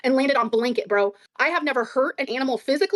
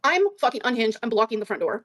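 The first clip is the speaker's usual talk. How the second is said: normal talking voice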